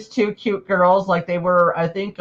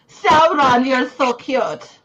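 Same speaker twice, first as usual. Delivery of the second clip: cooing; 5 semitones higher, slower than usual. Acted. Cooing at a friend's character.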